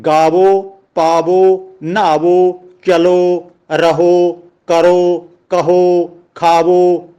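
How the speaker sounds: each of ਗਾਵੋ to ਖਾਵੋ ends on a clear long "o"; final O sounded. Shown as a demonstration. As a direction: list ਪਾਵੋ, ਕਰੋ, ਖਾਵੋ with a full held final "o". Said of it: "ਉੱਥੇ ਹੋੜੇ ਨਾਲ ਬੋਲੇ ਜਾਣਗੇ". (ਗਾਵੋ, ਪਾਵੋ, ਖਾਵੋ ਦੇ ਅੰਤ ਵਿੱਚ ਹੋੜੇ ਦੀ ਪੂਰੀ ਆਵਾਜ਼)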